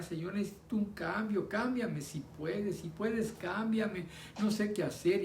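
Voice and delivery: a touch of remembered weeping, begging to be changed; retold tearful prayer. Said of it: "y empecé a llorar". (oración entre lágrimas recordada, voz alzada y suplicante)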